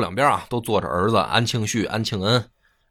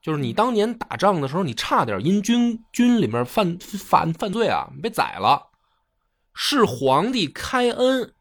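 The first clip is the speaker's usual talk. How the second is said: retold furious rebuke; 8 semitones higher than usual. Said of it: "指着安禄山就大骂".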